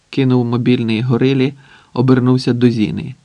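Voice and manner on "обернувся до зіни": usual speaking voice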